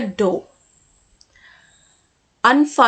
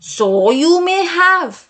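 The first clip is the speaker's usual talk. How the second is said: angry; 4 semitones higher than usual. A narrator's reading. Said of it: "replied the old woman angrily".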